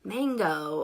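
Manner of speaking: "Mango" drawn out slowly, like the fruit; "Mango" as a slow, wrong reading of the name; mispronounced name. Shown as a demonstration. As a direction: say "Mango" long and exaggerated. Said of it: "everyone mispronounced it".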